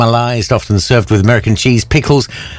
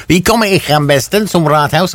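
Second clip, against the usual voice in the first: put-on German accent; 7 semitones higher than usual. Mock German mayor question.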